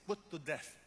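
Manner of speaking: "put to death" as a firm, separate phrase; emphatic stress on "put to death". Real, not acted. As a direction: drive home "put to death". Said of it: "That's the emphasis".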